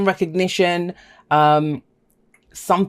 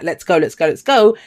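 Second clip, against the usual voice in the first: quick, eager energy; 4 dB louder than usual. Acted. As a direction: rattle off an urgent chant, building at the end. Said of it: "very quick kind of wands energy".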